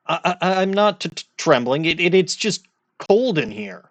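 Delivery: mock jittery excuse; stammering rookie. Rookie lawyer denies trembling to prosecutor, stammering.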